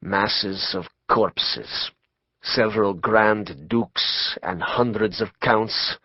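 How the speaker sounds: prophetic mystic. Acted. Rasputin's slow prophecy.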